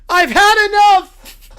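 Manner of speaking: loud, slow enraged yell; furious outburst. Acted. Little Brown Bear losing it, loud and slow. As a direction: explode with rage.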